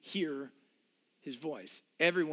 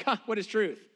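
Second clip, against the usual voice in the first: sarcastic; 3 semitones higher than usual. Retold or imitated.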